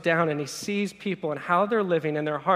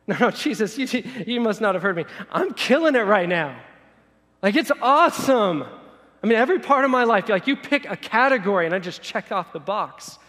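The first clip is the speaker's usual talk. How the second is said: loud, high, incredulous boasting; insistent bragging; 5 semitones higher, 8 dB louder than usual. Acted. Successful man sure Jesus misheard him, loud protest. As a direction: protest at the top of your voice that all is great.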